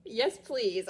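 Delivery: high playful "excuse me"; delighted fake shock; mock surprise. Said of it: "So I'm like".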